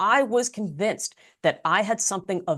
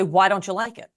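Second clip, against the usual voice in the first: defensive, accusatory. Shown as a demonstration. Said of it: "I instantly sound defensive".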